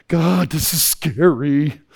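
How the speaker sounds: slow, drawn-out mock dread; mock scared. Voicing a young person facing a risk, mock scared. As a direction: draw it out like someone daunted by the leap. Voices a nervous would-be risk taker.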